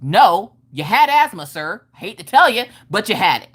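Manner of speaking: emphatic mock yelling, punchy starts; retold yelling. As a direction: act out arguing back at dad. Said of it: "And I'm yelling because".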